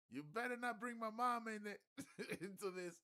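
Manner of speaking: very high, loud warning yell; mock yell, laughing. Dude warning Steven about his mom, high loud yell. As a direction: yell a warning, cracking up midway. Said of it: "The dude is like".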